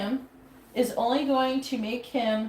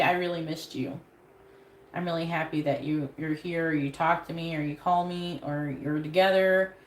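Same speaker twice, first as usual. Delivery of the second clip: soft sincere; 4 semitones lower than usual. Shown as a demonstration. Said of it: "just say".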